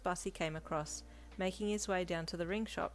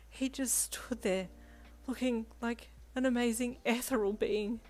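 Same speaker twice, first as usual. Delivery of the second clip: dreamy swooning; 5 semitones higher than usual. A narrator's reading. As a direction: swoon over him, lingering on the words. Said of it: "a faraway look in her eye".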